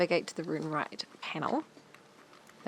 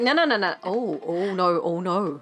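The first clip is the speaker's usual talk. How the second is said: panicked protest; 4 dB louder than usual. Retold or imitated. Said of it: "And you're like".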